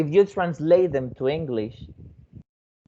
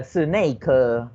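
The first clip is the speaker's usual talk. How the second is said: Taiwanese accent; 3 semitones lower than usual. Shown as a demonstration. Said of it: "there is a Taiwanese accent like".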